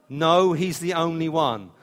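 God answers, flat and firm; mock reply from God. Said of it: "when they said".

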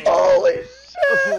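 breathless wheezing laugh; wheezy laughter. Real, not acted. Laughing too hard to breathe.

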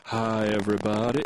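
a hint of a southern twang; lightly southern, talking down to a room; southern twang for Danny. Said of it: "an Al Gore accent, like a southern".

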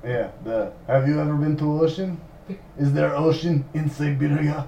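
articles dropped, mock Russian; mock Russian accent. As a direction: quiz like a comic Russian. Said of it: "practice Russian accent".

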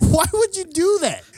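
very high, loud exasperation; mock appalled outcry. Host appalled at cousin's stupidity, mock exasperated. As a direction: wail it in comic disbelief.

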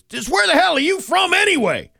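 a fed-up warden yelling at the hillbilly; mock yell. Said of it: "then he yelled at the hillbilly".

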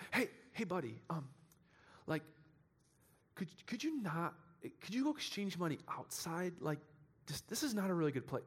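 lightly voiced pushover, mumbling politely; timid Jesus politely shooing money changers out, mock meek; passive, timid Jesus. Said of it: "not some passive Gandhi figure".

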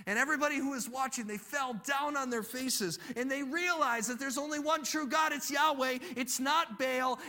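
high-pitched, emphatic proclamation; impassioned preaching. A narrator's reading. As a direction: proclaim the victory to the congregation. Preaching at full force.

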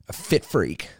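whispered jab at fit people; whispered aside. Acted. Mocking fit viewers, whispered aside. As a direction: hiss it as a sly aside.

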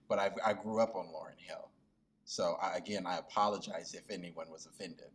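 quiet, half-hearted mock apology; lightly voiced insincere sorry; fake apology. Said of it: "I know it was a half-hearted apology".

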